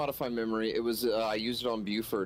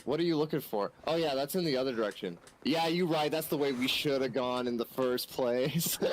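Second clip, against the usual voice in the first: higher, play-acted back-and-forth among the boys; mock banter; 5 semitones higher than usual. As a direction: act out lads bickering over the way. Player acts out the boys' banter.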